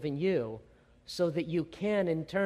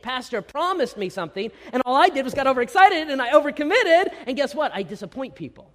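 hurt complaint; 8 semitones higher, 9 dB louder than usual. Retold or imitated. Voicing hurt congregant's thought.

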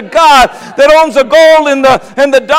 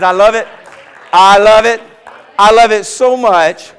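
God speaking tenderly; 4 semitones lower than usual. Acted. God voiced, tender and hushed.

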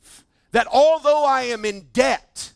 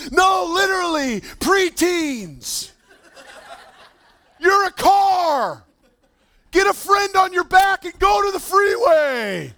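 hyped-up athlete; 7 semitones higher, 3 dB louder than usual. Retold or imitated. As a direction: stretch it out like a wild promise. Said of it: "And he's like".

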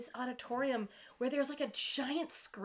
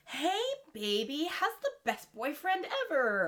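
mock flirty; 3 semitones higher than usual.

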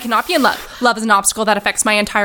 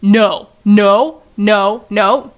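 firm loud no's; 5 dB louder, much slower than usual. Acted. Panicked refusal.

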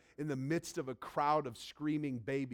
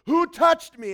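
loud, high searching question; Jesus asking; 20 dB louder than usual. Acted. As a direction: call it out over the crowd. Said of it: "and he goes".

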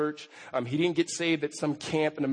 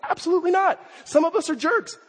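emphatic shout; 12 semitones higher, 3 dB louder than usual. Real, not acted. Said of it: "preacher shouts emphatic denial".

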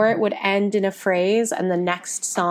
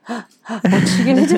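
louder, higher excited question; eager suspense; 4 semitones higher, 5 dB louder than usual. Retold or imitated. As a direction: ask it breathless with anticipation. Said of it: "we were both like".

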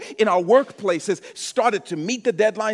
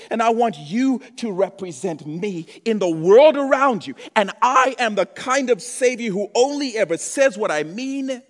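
yelling; 2 semitones higher, 5 dB louder than usual. Real, not acted. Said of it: "I'm yelling".

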